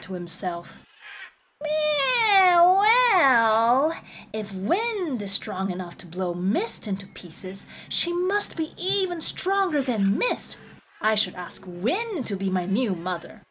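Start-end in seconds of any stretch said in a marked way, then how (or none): 1.6-13.4 high kitten voice, thinking it over; kitten's voice. Acted.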